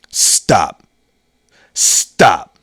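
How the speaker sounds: low, abrupt command with a falling end; two terse, separate warnings; mock-serious father. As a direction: imitate a dead-serious dad cutting it short. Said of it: "With the most serious of looks".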